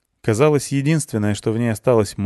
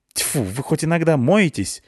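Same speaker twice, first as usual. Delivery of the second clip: higher, spat out in disgust; spitting angrily; 7 semitones higher than usual. A narrator's reading. Klyusya spits at the unwashed guards, angry. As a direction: spit the words with contempt. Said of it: "злобно сплюнула Клюся".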